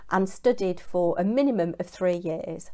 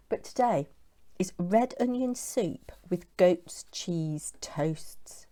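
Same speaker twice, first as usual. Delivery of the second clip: whispering; 5 dB quieter, slower than usual. Real, not acted. Announcing the soup of the day.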